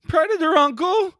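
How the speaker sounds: loud high-pitched Arnold-style call; shouted plea. Pretend. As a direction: yell it out to win him back.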